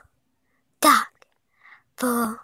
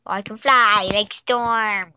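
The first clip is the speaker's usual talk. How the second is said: slow boast; slower than usual. Pretend. Boasting superhero powers.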